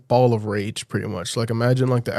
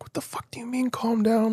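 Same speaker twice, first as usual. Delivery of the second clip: voiceless retort, pitched higher; mock whispered outrage; 11 semitones higher, 7 dB quieter than usual. Him snapping back at his girlfriend, higher whispered outrage. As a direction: throw her words back in a higher whisper. His furious reply on phone.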